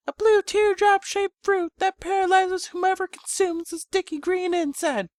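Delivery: chastising, motherly, tender. Acted. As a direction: warn him tenderly, a mother's light scolding. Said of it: "slightly chastising, motherly, and tender".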